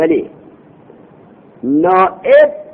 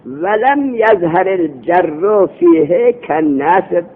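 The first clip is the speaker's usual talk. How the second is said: reading the text aloud; much slower than usual. Shown as a demonstration. Teacher reads Arabic text slowly.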